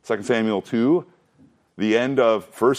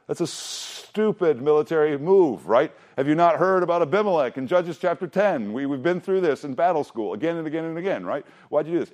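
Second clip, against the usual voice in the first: mock angry David; 5 semitones higher than usual. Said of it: "and he says".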